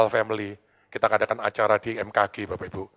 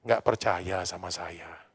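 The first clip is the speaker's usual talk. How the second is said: soft, slow, lower voice of God; 6 semitones lower, 9 dB quieter, much slower than usual. Retold or imitated. God gently rebuking the sick pastor, soft slow voice. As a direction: speak it gently and slowly, as God would. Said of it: "Ngomongnya gini".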